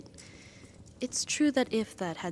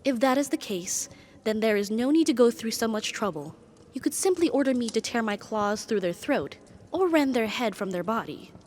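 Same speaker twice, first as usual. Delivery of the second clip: agitated, a touch louder, pressing; indignant questioning; 3 dB louder than usual. Acted. Demon learns master wants another bound, mild indignant protest.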